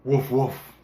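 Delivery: spoken woofs; dog agreeing with the farmer; dog barking. A narrator's reading. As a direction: bark it out lightly. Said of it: "said the dog".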